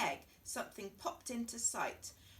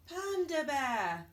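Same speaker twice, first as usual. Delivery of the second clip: higher, louder, slow announcement; grand reveal; 6 semitones higher, 7 dB louder, slower than usual. Acted. Sheep proudly revealing her guess, high and slow. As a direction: unveil it grandly.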